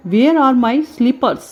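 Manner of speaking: slow, clear teacher model; model sentence. Shown as a demonstration. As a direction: spell it out slowly for the class. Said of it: "सबसे पहले हम क्या देखते हैं". (धीमे, साफ़ उच्चारण में)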